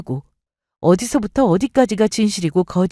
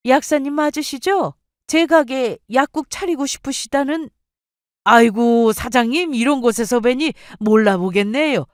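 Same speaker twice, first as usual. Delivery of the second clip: lightly voiced, higher-pitched polite greeting; a touch of pleased recognition, pitched up; surprised acquaintance; 5 semitones higher than usual. Mother and pharmacist recognise each other unexpectedly, politely surprised.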